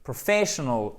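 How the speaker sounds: PROFESSIONAL with clear stress on FE; accent tonique. Shown as a demonstration. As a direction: lean on FESS in "Professional", light ending. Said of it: "Si vous faites bien l'accent tonique". (Professional, accent tonique net sur FE)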